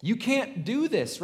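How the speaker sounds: high, drawn-out incredulous protest; acted freak-out. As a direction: imitate alarmed disciples objecting, pitch swooping up. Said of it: "his disciples are freaking out at this".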